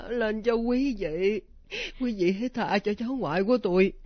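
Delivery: measured, supplicating prayer; praying. Acted. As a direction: recite an offering prayer. Grandmother prays with an offering.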